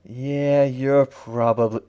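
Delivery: slow, gentle killer; nice, soft. A narrator's reading. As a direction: ease into it kindly. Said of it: "in a nice soft voice".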